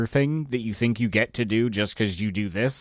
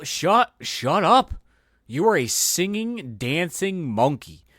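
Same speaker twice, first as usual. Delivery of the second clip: angry rant; 6 semitones higher, slower than usual. Real, not acted. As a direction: snap it at a pompous actor. Ranting at actors.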